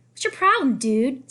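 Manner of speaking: high, loud, indignant; angry challenge. Acted. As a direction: confront him angrily. Friend confronting bully.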